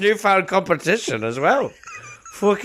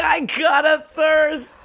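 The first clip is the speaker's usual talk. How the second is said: put-on town drunk; 9 semitones higher, slower than usual. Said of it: "echoing the drunk line".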